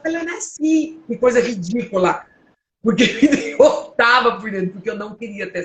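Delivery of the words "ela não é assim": mock whining. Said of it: "eu até ficava".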